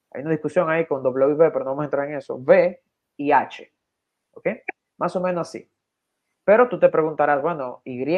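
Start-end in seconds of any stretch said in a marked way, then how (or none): 2.3-3.7 slow letter spelling. Shown as a demonstration. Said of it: "en español podría ser equivalente a".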